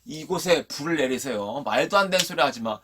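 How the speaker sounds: dismissive mock exclamation; mocking disbelief. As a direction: brush it off as a silly joke. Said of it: "농담으로 여겼더라".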